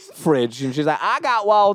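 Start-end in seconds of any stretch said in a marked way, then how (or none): 1.0-1.8 put-on Tallahassee accent with a higher pitch. Imitating a creepy woman in Tallahassee who has Walt: put-on Tallahassee accent. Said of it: "I just did a, a, an accent for Tallahassee".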